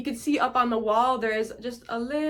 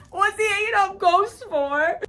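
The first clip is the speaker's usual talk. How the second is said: high, loud imitation of the genie; louder, higher genie voice asking about ghosts; genie impression; 9 semitones higher, 4 dB louder than usual. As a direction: ham up the genie's puzzled line. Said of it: "Fucking kills me every time".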